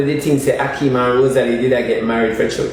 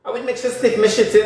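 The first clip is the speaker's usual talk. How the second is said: mock high voice; 7 semitones higher than usual. Mocking voice shouting them away.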